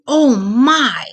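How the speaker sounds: high, loud delighted gasp of a cheerful hedgehog; excited exclamation. Acted. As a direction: burst out in happy surprise. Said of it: "she exclaimed".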